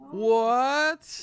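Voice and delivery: loud, high, incredulous outburst; high, drawn-out cry of disbelief; real disbelief. Real, not acted. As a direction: exclaim in shocked disbelief. Reacting to the backhanded compliment.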